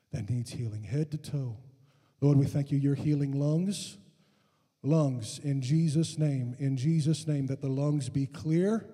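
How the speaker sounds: measured prayer, building in strength; deliberate, repetitive healing prayer. Real, not acted. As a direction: pray over the room, firmer as it goes.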